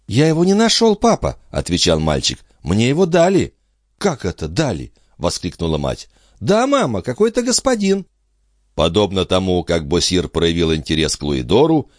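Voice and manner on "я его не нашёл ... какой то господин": put-on high, eager small boy; little boy. A narrator's reading. Son telling parents about the coin, high childish. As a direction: answer like a proud little child.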